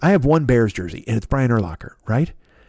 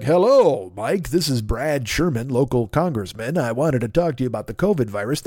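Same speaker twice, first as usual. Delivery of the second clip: congressman voicemail; 4 semitones lower than usual. Retold or imitated. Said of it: "he's gonna call me and be like".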